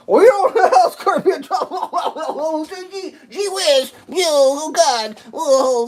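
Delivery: high giggling words, slowed down; laughing. Real, not acted. Cracking up while telling the camera. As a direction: laugh your way through the line.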